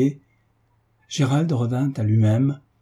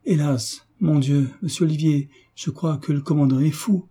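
alarmed; 5 semitones higher than usual. Acted. Alarmed housekeeper bursts in.

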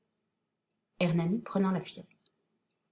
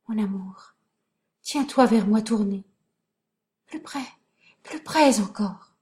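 fading, whispered tenderness; dying voice. Acted. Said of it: "D'une voix qui s'éteint".

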